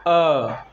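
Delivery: short Hindi vowel "अ" said alone; short a sound. Shown as a demonstration. Teacher demonstrates the short vowel अ to pupils. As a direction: voice the short "अ" for the class. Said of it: "मैं यदि ध्वनि निकालता हूँ".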